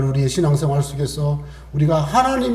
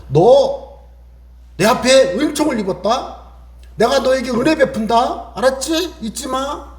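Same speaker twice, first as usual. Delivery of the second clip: God reassuring; 6 semitones higher than usual. Acted. God voiced reassuring Moses.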